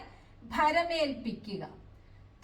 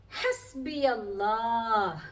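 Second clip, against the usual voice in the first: slow recitation; 2 semitones lower, much slower than usual. Shown as a demonstration. Teacher recites Quranic phrase.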